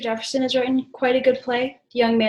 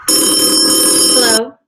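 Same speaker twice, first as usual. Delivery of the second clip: phone operator voice; 11 dB louder than usual. Acted.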